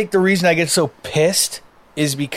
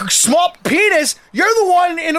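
flustered retort; 11 semitones higher than usual. Retold or imitated. Muggs, retelling his road rage, sputters back at the truck driver. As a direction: sputter it out, too flustered to land it. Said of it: "stumbling on my words".

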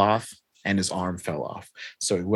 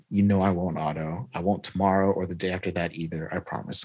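softly retold promise, fading quieter; gentle reassurance; 6 dB quieter, faster than usual. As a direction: reassure a friend lightly, voice dropping. Pete reassures embarrassed Otto in retelling.

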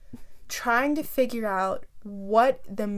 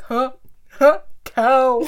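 dumbfounded cow watcher; 9 dB louder, slower than usual. Retold or imitated. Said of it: "we're just like".

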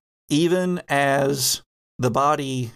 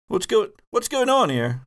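put-on Minnesota accent, pitched up; confused Minnesotan, higher voice; 8 semitones higher than usual. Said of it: "I gotta get my Minnesota accent on".

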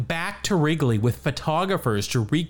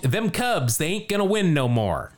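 put-on old-timey voice; 3 semitones higher than usual. Shown as a demonstration. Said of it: "That's kind of in my old-timey voice".

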